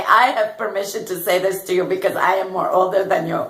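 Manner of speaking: fast, laughing through it; quick laughing banter; laughing tease. Retold or imitated. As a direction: giggle while you justify the joke. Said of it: "and I say".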